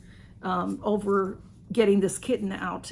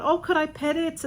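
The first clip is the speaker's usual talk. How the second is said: put-on eager kid; 7 semitones higher than usual. Kids asking eagerly.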